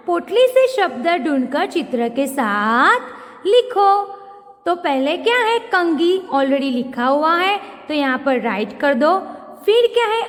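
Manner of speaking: ordinary delivery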